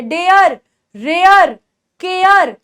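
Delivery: डेयर, रेयर, केयर each said alone and carefully; word drill. Shown as a demonstration. Teacher reviewing rhyming words for learners, deliberate word drill. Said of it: "सारे words हम लोग वापस से repeat करके".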